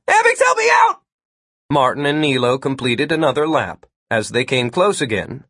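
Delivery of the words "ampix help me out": very high, loud shout for help; desperate cry. A narrator's reading. Martin calls to Ampix while being chased, desperate cry. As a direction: call out urgently on the run. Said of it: "Martin cried".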